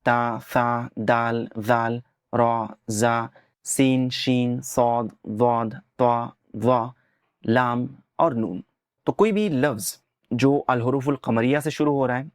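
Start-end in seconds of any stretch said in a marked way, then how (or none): 0.1-8.6 slow, drawn-out recital of the sun letters; name each letter slowly and clearly; letter names recited. Shown as a demonstration. Teacher slowly reciting the Arabic sun letters. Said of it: "अल हुरूफुश शमसिया हैं".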